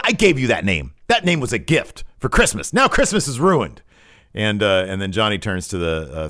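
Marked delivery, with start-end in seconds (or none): 0.0-3.8 rising into a much higher, louder whiny rant; hammed-up wounded tantrum, climbing as it goes; a comic meltdown getting shriller and louder; mock outrage. Gargano ranting in recap.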